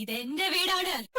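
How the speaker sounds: slow, lightly voiced ghost; mock-spooky claim, drawn out; pretend ghost. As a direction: drag it out like a haunting spirit. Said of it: "ഞാൻ അവരെ പേടിപ്പിച്ചിരിക്കും".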